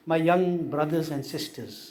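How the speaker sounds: very slow, each word set apart; deliberate slow preaching; slow speech. Shown as a demonstration. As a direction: spell it out slowly so all understand. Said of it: "मैं slowly बात कर रहा हूँ".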